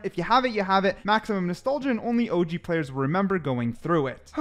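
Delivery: slightly winded, catching breath. Real, not acted. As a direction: talk while a bit out of breath. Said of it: "I'm a little bit out of breath".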